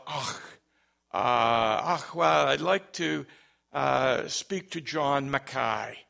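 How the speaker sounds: lightly imitated Scottish caller; thick Scottish accent. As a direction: put on a hint of a thick Scot. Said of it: "had a very thick Scottish accent".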